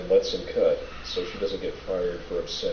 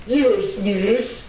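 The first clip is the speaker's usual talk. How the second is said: squeaky high voice; 13 semitones higher, 5 dB louder than usual. Retold or imitated. Mocking quote of a character.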